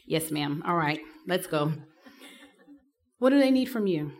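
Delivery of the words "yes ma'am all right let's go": low, quiet, worn-down giving in; resigned yes ma'am. Retold or imitated. Patient tells the nurse, quietly giving in. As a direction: sigh it out like a tired patient. Retelling her reply at the clinic.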